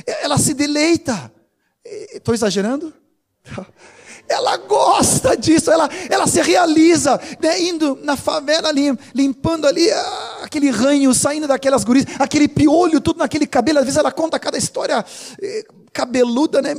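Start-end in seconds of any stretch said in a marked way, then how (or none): 4.3-13.0 excited exclaiming. Real, not acted. Pastor praising the soup-kitchen woman, excited shout. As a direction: burst out with delight at her joy.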